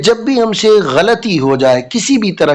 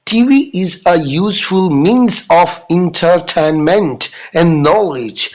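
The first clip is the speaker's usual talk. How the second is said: loving advice; much slower than usual. Retold or imitated. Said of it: "बड़े प्यार से कहती हैं".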